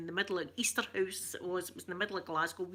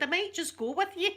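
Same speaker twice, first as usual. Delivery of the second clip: coy flirt; 10 semitones higher than usual. Pretend. Flirty joke to viewers.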